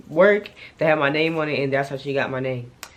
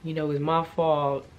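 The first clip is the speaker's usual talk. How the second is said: gentle apology; 5 dB quieter, slower than usual. Retold or imitated. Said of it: "He was like".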